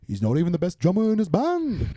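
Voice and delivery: put-on 1960s-band-style Liverpool accent. Band member ribbing his drummer, in a Liverpool accent. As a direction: put on a jokey Scouse accent. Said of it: "a Liverpool accent".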